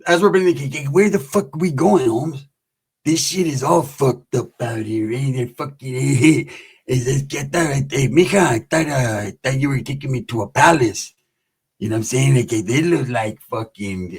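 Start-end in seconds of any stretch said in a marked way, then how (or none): 0.9-11.1 lightly voiced low, disgusted homie; mild, halting grumble at the shabby place; grumbling homie. Released homie complaining to mija about the house, lightly voiced grumble. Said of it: "this is what he says".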